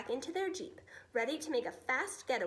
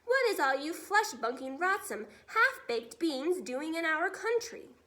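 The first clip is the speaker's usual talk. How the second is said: angry giant; 3 semitones higher, 5 dB louder than usual. Acted. Furious giant confronting soldiers.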